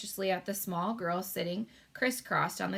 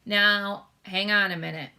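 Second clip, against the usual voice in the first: louder, stopping him short; mild interrupting call; 7 dB louder than usual. A narrator's reading. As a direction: cut in to halt him. Sophie interrupts sharply.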